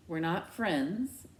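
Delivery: slow defensive denial. Acted. Daughter defending herself to her parents. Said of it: "I defend myself".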